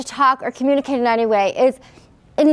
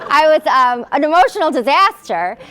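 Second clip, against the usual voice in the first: laughing; 4 semitones higher, 4 dB louder than usual. Real, not acted. Laughing through self-description.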